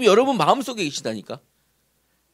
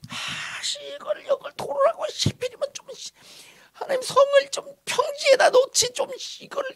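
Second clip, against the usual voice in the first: hushed, breathy griping under the breath; mock-grumble through a whispered moan; grumbling complaint. People made to circle the rough hill, acted muttered grumbling.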